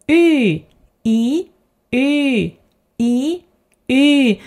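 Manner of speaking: Y said as a rounded E; Y, from E with lips rounded. Shown as a demonstration. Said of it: "Y is just rounded E".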